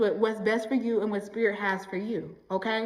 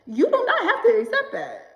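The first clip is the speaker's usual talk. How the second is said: said through a laugh, high and louder; 11 semitones higher, 4 dB louder than usual. Real, not acted. Telling viewers to drop bad treatment while laughing. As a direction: laugh it out as you say it.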